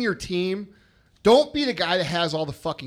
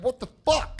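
higher-pitched exasperated outburst; mock pissed-off exclamation; 7 semitones higher than usual. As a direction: retell it as a fed-up reaction. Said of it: "I get so pissed off".

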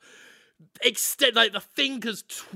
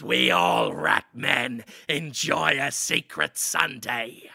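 low, slow rat elder; a hint of a solemn rat man; slow, low ceremonial rat voice; rat man father; 7 semitones lower, slower than usual. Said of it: "looks at Daniel Radcliffe and says".

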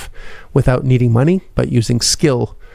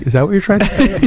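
higher, puzzled mock voice; mocking listener voice; 7 semitones higher, faster than usual. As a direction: play a confused listener. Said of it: "people are like".

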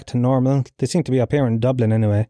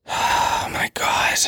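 whispered, drawn-out exasperation; exasperated sigh; much slower than usual. Real, not acted. Fed up with conspiracy believers, exasperated sigh. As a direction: sigh the words out slowly on breath.

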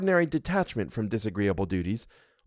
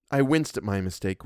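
ordinary delivery

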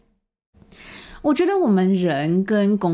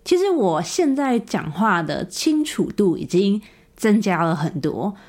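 speaking through dental braces; slightly lisped words with braces; talking with braces. Real, not acted. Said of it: "现在的我正戴着牙套在录".

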